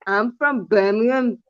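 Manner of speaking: slow attempt at a Birmingham accent. Friend asked for a Birmingham accent tries it slowly. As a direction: put on a Brummie accent, slowly. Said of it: "a Birmingham one, please".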